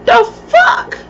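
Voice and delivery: a high, shouted, stunned rise; shocked shout. Retold or imitated. Reacting to the clerk's news, a high shocked shout. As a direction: yelp it in total disbelief, way up high.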